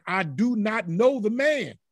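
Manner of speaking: insistent denial under oath; sworn denial. Acted. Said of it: "He denied this time with the oath".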